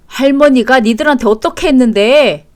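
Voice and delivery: loud, indignant question; angry scolding. Acted. Father defending grandmother to the children, angry scolding. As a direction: reproach them with force.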